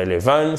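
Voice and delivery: "eleven" with the weight on final "-ven"; wrong stress on eleven. Shown as a demonstration. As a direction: stress the last syllable: eleVEN. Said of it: "ce n'est pas eleven". (eleven accentué à tort sur la fin)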